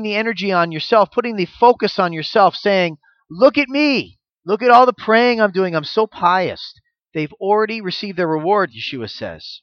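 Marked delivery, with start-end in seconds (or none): 3.3-6.7 higher, showy self-praising voice; a hint of a preening hypocrite; mock pious boast. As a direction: show off your praying, smug. Mocking a showy hypocrite praying.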